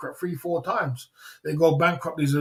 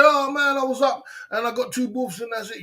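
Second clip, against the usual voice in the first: mock defeated fighter; 7 semitones higher than usual. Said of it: "You didn't say".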